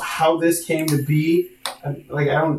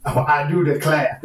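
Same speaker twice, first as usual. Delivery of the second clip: pompous preppy. Acted. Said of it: "Pompous preppy guy".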